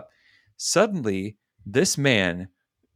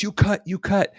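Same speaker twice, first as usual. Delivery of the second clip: retold accusation; 10 semitones higher than usual. Retold accusation by the line-cutter.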